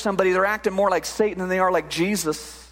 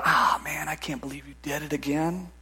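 accusing whisper; 6 semitones lower, 6 dB quieter than usual. Retold or imitated. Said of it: "He starts whispering in your ear".

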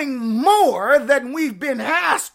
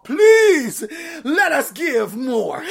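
mock begging plea; 4 dB louder, slower than usual. Congregation begging Paul to give.

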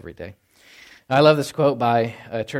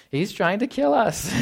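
mock alarmed objection; 9 semitones higher, slower than usual. Mock team picker objecting.

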